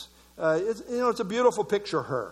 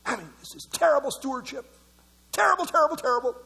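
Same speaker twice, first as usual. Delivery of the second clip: mock outrage; 4 semitones higher, much faster than usual.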